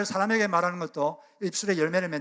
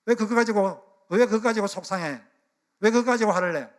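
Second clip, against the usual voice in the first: higher, louder parental scold, half-acted; mock scolding parent; 4 semitones higher, 4 dB louder than usual. Pastor imitating a parent brushing off a child's anger, mock scold. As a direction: play the dismissive parent snapping at the upset child. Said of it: "야단치거나 무시하죠".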